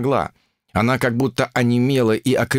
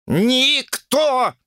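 bellowing; 13 semitones higher, much slower than usual. Acted. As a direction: yell it right into his ear. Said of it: "проорал, что из силы". (Сунь Укун орёт в ухо помощнику режиссёра)

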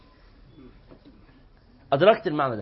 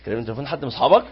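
laughing; 7 semitones lower, much faster than usual. Real, not acted. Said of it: "إيه الكلمة دي؟".

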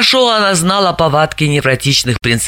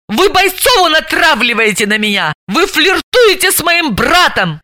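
spiteful; 9 semitones higher than usual. A narrator's reading. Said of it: "выплюнула с ненавистью и злобой".

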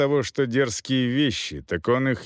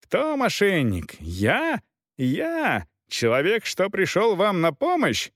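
higher, heated shouting; officer yelling back at the knight, higher; indignant yell; 7 semitones higher than usual. A narrator's reading. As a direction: throw the insult back, offended. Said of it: "в ответ орал фон Финк".

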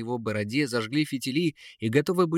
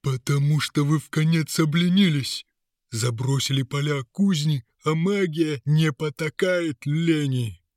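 seething; 5 semitones higher, 4 dB louder than usual. A narrator's reading. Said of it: "Мешок хитростей закипел".

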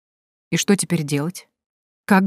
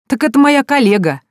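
fake laugh; 9 semitones higher, 5 dB louder than usual. A narrator's reading. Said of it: "разразился наигранным смехом".

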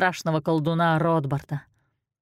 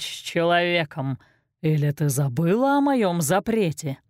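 a lightly voiced menacing sorcerer; Rotbart's sinister voice. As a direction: threaten like an evil wizard. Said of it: "Раздался зловещий голос Ротбарта".

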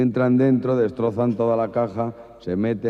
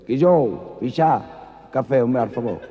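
louder, higher Andalusian bar call; Andalusian accent; 4 semitones higher, 4 dB louder, slower than usual. Acted. Andalusian man ordering coffee on credit, Andalusian accent.

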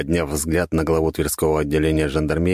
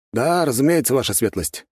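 lightly voiced obliging gendarme, pitched up; readily agreeing; 9 semitones higher than usual. A narrator's reading. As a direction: agree easily, with a high start. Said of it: "легко согласился жандарм". (с лёгкой готовностью, голос повыше)

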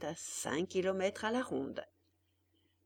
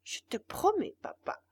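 higher, louder proud promise; boastful puppet; 7 semitones higher, 6 dB louder than usual. Acted. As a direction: swear to be better than others.

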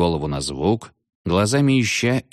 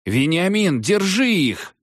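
yelled; 12 semitones higher, slower than usual. A narrator's reading. Oror yelling at Veniamin to hold them, alarmed. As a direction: shout for help in alarm. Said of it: "завопил Орор".

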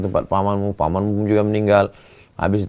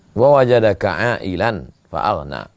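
Quran recitation; 3 semitones lower, slower than usual. Acted.

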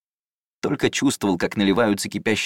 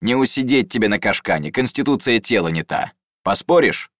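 forced cheer. Acted. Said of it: "делано весело заговорил Атикс".

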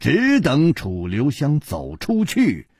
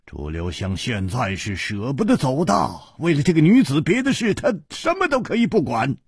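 loud voice; 2 semitones higher than usual. Acted. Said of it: "黑珍珠大声地说".

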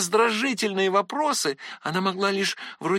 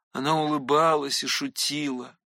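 ordinary delivery, nothing marked

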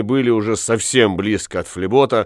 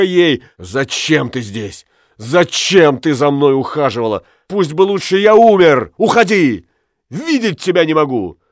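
jealous rage; 4 semitones higher than usual. Acted. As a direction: rage and grieve at her betrayal. Jealous husband raging at wife.

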